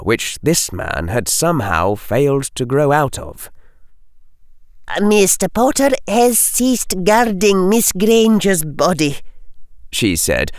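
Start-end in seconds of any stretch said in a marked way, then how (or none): 5.0-9.2 high, cold, clipped reply; chilly. A narrator's reading. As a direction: let the chill show. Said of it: "putting some of the chill she felt into her voice".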